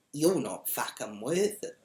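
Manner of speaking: unbothered, level put-down; calm dismissal. Retold or imitated. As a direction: dismiss them without raising the voice. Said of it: "I actually said it just like that".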